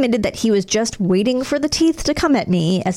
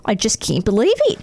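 put-on Australian accent; 2 semitones higher than usual. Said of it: "read this in an Australian accent".

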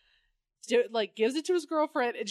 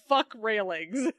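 laughing through the words; giggling as you say it; slower than usual. Retold or imitated. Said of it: "Bruce Wayne says".

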